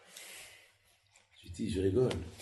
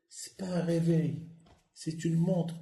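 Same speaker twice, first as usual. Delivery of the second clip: Théo insistant; 7 semitones higher, slower than usual. Retold or imitated. Théo insiste, voix jouée.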